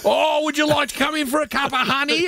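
put-on high fluting old lady voice; old lady invitation. Landlady offering scones, high sweet old lady voice. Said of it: "she'd say".

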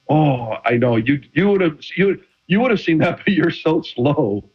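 teasing jab ending in a laugh, slowing down; mocking taunt. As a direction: rib the ref with a chuckle. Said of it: "you'd make fun of 'em".

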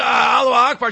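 mild mock yell; imitated yell. Host retelling a prankster's cry on a subway, mild imitated yell. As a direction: retell a shout without full volume.

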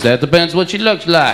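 put-on Texas accent. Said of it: "He says".

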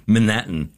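"Manhattan" with a reduced first syllable, muh-NAT-n; local pronunciation. Shown as a demonstration. Showing how they say it there, Manhattan as muh-NAT-n. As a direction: swallow the H and first vowel of Manhattan. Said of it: "how they pronounce it in".

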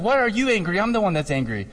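mock-indignant, starting high then dropping; retold indignation. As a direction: play the offended husband protesting. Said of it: "and then he's angry".

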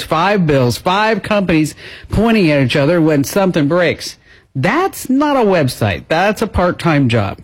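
brisk, practised radio ad voice; sponsor ad read. Real, not acted. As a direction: pitch the sponsor smoothly and emphatically. Reads a sponsor ad.

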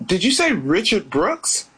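can't believe what she just heard; retelling a mock double take; shocked disbelief. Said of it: "So I said".

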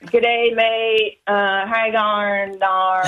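slow, drawn-out attempt at broad Aussie; Australian accent. American caller trying out Aussie greetings on air, in an imitated Australian accent. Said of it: "be repeated back to you".

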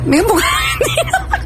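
high, laughing attempt at an Argentine accent; comically overdone Argentine lilt; slipping into Argentine accent. Shown as a demonstration. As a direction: drift into Argentine Spanish, giggling. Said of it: "uy, me he ido argentino".

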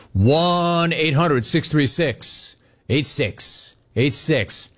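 phone number read slowly like an ad. Acted. Host reading the call-in number, slow and clear.

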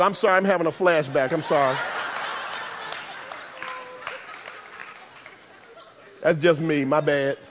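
low, soft mock apology; quietly owning a joke flashback; sheepish aside. Real, not acted. Joking apology after a personal aside.

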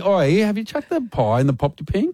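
high-pitched offhand question; sneaky casual slip-in. Acted. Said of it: "like it's sneaky".

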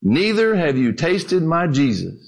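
calm, measured punchline. Acted. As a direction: answer evenly and unhurriedly. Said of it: "said calmly".

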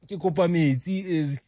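put-on English-accented Sesotho. Parent imitating a child asking for water, English-accented Sesotho. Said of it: "like, an English accent".

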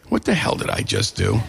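laughing. Real, not acted. Disbelief after signing up.

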